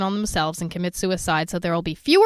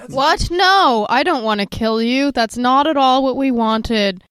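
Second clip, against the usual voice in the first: mock incredulous; 2 semitones higher, 4 dB louder than usual. Acted quote of baffled movie line.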